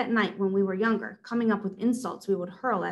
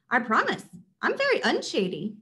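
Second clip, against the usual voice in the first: nervous shopper; 3 semitones higher than usual. Acted. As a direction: squeak it out nervously. Shopper pleads.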